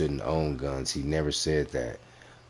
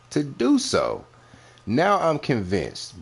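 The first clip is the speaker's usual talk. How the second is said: heated call-out; 9 semitones higher, slower than usual. Real, not acted. Calling out the rival host.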